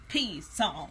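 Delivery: "P Psalms" with a spoken P, American style; mock American reading. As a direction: copy his American "pee Psalms". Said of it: "did you say that with an American accent".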